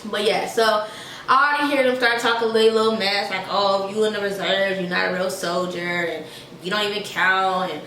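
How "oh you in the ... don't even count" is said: mocking soldier. Mocking what active duty soldiers say.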